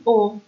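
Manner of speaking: «او» as a simple o, not from the throat; ordinary o. Shown as a demonstration. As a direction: say «او» as a normal o without umlaut. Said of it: "از ته حلق تلفظ نمیشه". («او» عادی، نه از ته حلق)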